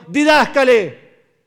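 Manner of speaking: high, loud, slow cry; drawn-out plea; desperate shout. Acted. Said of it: "gritando en desesperación". (grito lento y desesperado)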